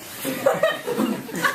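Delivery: airy, very high laugh; breathy high laugh. Real, not acted. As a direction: laugh off the teasing. Laughs at hair remark.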